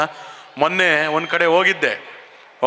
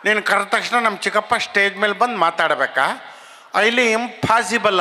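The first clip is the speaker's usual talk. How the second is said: put-on higher, slurred drunk voice, dragging the end; drunk man; 4 semitones higher than usual. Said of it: "ಅವನೇನು ಹೇಳಬೇಕು?". (ಕುಡುಕನ ಎತ್ತರದ ಎಳೆದ ಧ್ವನಿ)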